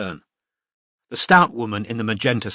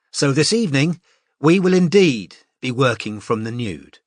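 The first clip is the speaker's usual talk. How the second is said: lightly voiced cheerful teacher; 2 semitones higher than usual. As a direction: address the class like a confident tutor. Narrator voices the teacher Mariam.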